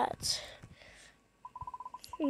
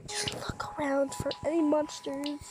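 whispered; 6 dB quieter than usual. Real, not acted. Sneaking, hushed.

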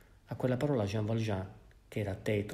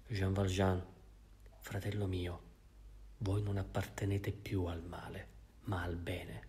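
solemn; 2 semitones lower, 4 dB quieter than usual. Acted. Bishop solemnly tells Jean Valjean he buys his soul, grave and hushed. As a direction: pronounce it like a blessing. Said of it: "Continuò con una specie di solennità".

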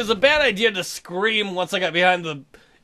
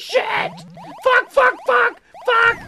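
high loud panicked cursing; 5 dB louder, much slower than usual. Real, not acted. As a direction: curse in a rush as it goes wrong. Caught in game.

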